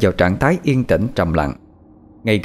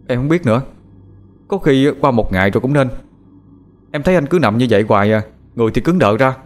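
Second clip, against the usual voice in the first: slightly raised, quick younger-brother voice, worried; lightly voiced worried younger brother; 4 semitones higher, faster than usual. Younger brother explaining to his brother, lightly voiced worry. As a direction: gush it out as the worried little brother.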